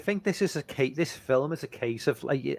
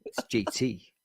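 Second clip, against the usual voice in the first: attempted New York accent, drawn-out ending; slower than usual. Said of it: "good New York accent".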